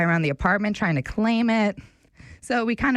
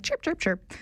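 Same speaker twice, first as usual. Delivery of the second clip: higher, softer, cuter chirping; cuter bird chirp; 8 semitones higher, 5 dB quieter than usual. Retold or imitated. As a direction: make the chirps sound sweet and tiny. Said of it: "sounded a lot cuter than that".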